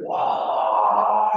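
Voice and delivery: loud "와!" in awe, a touch high; awed wow. Retold or imitated. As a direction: marvel out loud "와!". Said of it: "막 이래". (감탄하듯 크게 "와!")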